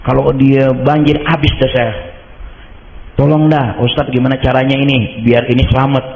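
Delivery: begging the ustadz for help, pitch up; pleading client. Retold or imitated. (memohon dengan panik)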